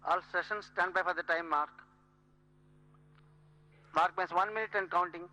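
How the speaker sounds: crisp callout over the tannoy; clipped count call on the loop; terse radio update. Real, not acted. Range call over loudspeaker.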